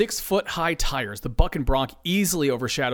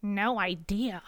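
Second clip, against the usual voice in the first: softer, slow whispered reply; 6 semitones higher, 5 dB quieter, slower than usual. Acted. Dennis whispering back to Steve, soft. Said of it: "Dennis whispers back".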